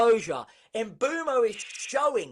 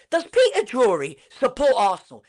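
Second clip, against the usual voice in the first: laughing; 5 dB louder than usual. Real, not acted.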